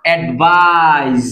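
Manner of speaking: slow অ্যাডভাইস ending in a z sound; advise with z. Shown as a demonstration. Teacher shows students অ্যাডভাইস ending in z. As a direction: stretch অ্যাডভাইস out, end on z. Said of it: "জ sound".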